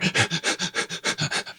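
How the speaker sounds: soft, rapid panting; labored breathing imitation. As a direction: pant quietly like a dying bunny.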